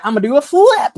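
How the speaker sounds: loud, high excited voice; excited wrestler voice. Retold or imitated. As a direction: shout it like a giddy wrestler. Voicing the wrestler.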